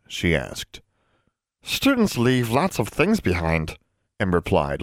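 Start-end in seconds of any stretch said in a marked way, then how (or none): 1.6-3.8 slow, amused elf voice; amused house elf. Acted. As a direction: elf chuckling at the question. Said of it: "looking amused".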